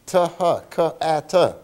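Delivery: ta, ha, ka, a, ta as separate clipped syllables; choppy phonics sounds. Shown as a demonstration. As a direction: sound out each piece on its own. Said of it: "teach them things like".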